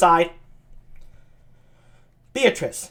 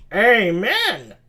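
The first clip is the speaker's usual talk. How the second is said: crying amen; 3 semitones higher, 4 dB louder than usual. Acted. Suitor's answering Amen, acted.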